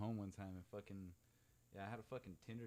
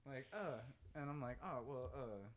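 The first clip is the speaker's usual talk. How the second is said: startled; 4 semitones higher, 7 dB louder, slower than usual. Retold or imitated. Startled teller relives panic.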